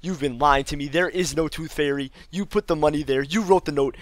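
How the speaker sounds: triumphant mock gotcha; mock accusation. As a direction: list the charges against mom with mounting indignation. Silent accusation of mom, acted.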